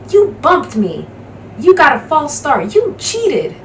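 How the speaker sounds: high, heated accusations, rising to a near shriek; angry protest. Acted. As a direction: sore loser blaming everyone. Mars Bars protesting the loss.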